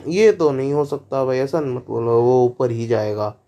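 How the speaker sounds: lightly voiced smug creator, brushing off doubt; mocking the creator.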